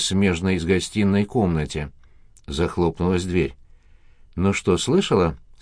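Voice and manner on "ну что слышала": ordinary delivery, nothing marked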